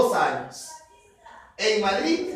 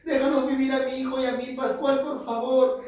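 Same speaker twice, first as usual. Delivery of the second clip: a touch of tearful, higher begging; pleading Lola; 3 semitones higher than usual. Acted. Lola begs Pascual to let her child live, mildly tearful. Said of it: "Más lloraba".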